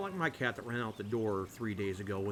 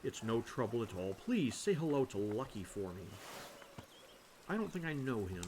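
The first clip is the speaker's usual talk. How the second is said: easygoing Ulrich. Acted. Voices Ulrich replying.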